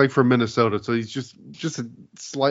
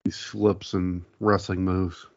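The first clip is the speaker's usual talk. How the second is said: Brett impression. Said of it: "Is that Brett?".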